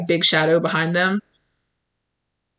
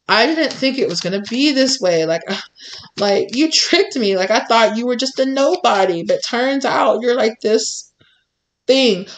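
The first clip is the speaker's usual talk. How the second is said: whiny rival; 4 semitones higher than usual. Retold or imitated. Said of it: "And they're just like".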